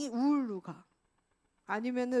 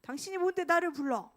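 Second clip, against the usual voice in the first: mock angry retort; 5 semitones higher than usual. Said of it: "막 화내는 거죠".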